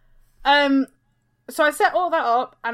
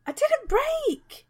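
much higher, drawn-out denial; indignant protest; 13 semitones higher, much slower than usual. Real, not acted. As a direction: protest the blame in a high, slow wail. Protests being blamed for breakage.

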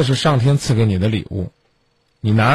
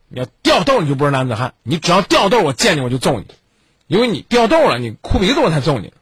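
mildly raised stern warning; retold stern roar; 5 semitones higher than usual. Father retells toughening his son, mock stern roar. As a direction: lift the key words high, as if scolding. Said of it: "吼是希望他坚强".

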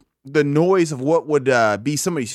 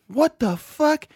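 much higher, rising what the fuck; shocked what the fuck; 10 semitones higher, slower than usual. Retold or imitated. Retelling seeing a blacksmith at night, shocked. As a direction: blurt it out in shock, pitch shooting up. Retold shock while high.

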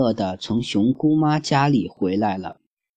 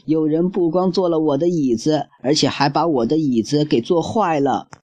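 higher childlike voice, mock tearful; little cub whining over his chair; crying baby bear; 5 semitones higher than usual. Baby bear to family, higher mock-crying voice. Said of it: "熊宝宝则哭着喊道".

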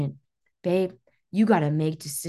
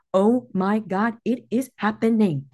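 energy of certainty; 2 semitones higher than usual. Acted. Coach modelling a client's mindset, emphatic certainty. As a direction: declare it with deliberate certainty. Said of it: "this energy of certainty".

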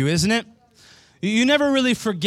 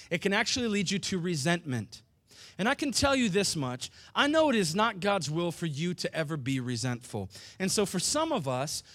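much softer, confiding sermon voice; soft intimate preaching; 6 dB quieter than usual. Real, not acted. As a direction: draw them in close and gentle. Pastor speaking softly, intimately to church.

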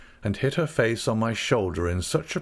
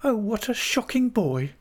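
put-on high, playfully scolding young wife; Dora crying out; 13 semitones higher than usual. A narrator's reading. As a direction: scold him in a very high girlish voice. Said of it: "cried Dora".

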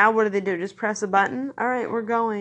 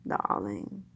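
put-on low, soft old Hollywood Mid-Atlantic "darling"; Mid-Atlantic accent; 11 semitones lower, 6 dB quieter than usual. Adding Cary Grant, mock Mid-Atlantic accent. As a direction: drop low into a Mid-Atlantic movie-star voice. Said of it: "the Mid-Atlantic accent".

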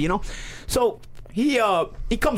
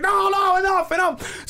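stopping shout; 10 semitones higher, slower than usual. Retold or imitated. Brother breaks up the fight.

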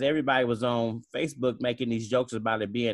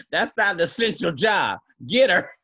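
louder, higher barked order; mock police yell; 4 semitones higher, 6 dB louder than usual. Police ordering an arrest outside, in a mock bark. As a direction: shout it like a cop pointing.

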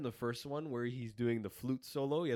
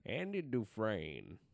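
Morgan Freeman impression; much slower than usual. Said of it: "Mm, not really there".

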